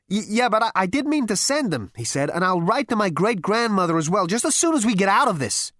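high, stammering excuses; flustered, nervous Zaphod. Acted. Zaphod placates his great-grandfather, nervous and high-pitched. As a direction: stumble nervously into a placating promise.

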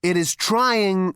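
slow, controlled patience; with restraint. A narrator's reading. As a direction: hold your temper, measured and slow. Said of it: "said Zaphod with wonderful restraint".

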